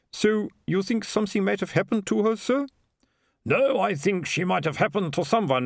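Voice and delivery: put-on high, deliberate accented comic voice; exasperated mayor and sergeant. Mayor complains to sergeant about Malicia, high and exasperated. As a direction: grumble through the list in a high voice.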